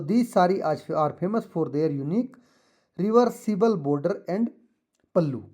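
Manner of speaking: slow, deliberate read-aloud for pupils; teacher reading the textbook passage. Shown as a demonstration. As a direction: read it out slowly so the class can follow. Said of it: "तो मैं पढ़ता हूँ इसको".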